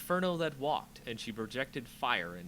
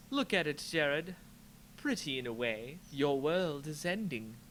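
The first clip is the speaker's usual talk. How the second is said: lightly voiced gloating villain; a hint of cruel sorceress; 3 semitones higher than usual. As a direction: savor the ruin, lightly menacing. Liliana voiced.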